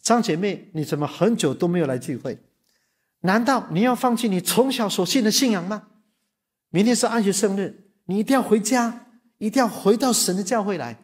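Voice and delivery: a hint of a stern, high-pitched pastor. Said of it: "他就跟他讲说".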